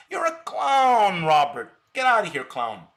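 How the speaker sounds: furious put-down of a heckler; angry outburst. Real, not acted. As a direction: drag out the insult, then dismiss him. Ranting insults at a chat critic.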